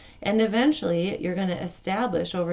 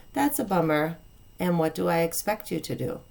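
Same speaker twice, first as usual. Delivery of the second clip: calm and kind. Shown as a demonstration. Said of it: "say it calmly and kindly".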